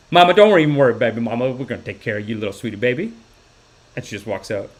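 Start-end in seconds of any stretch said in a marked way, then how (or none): 0.1-3.1 loving nurse impression. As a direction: soothe a patient with pet names. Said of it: "Just such loving".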